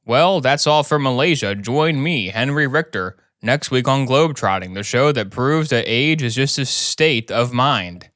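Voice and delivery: lightly voiced travel presenter; TV show host signing off.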